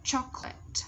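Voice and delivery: "Chocolate" ending straight on T, no E sound; silent final E. Shown as a demonstration. Teacher explaining the silent letter, "Chocolate" ending crisply on T. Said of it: "E âm công chúng ta không đọc".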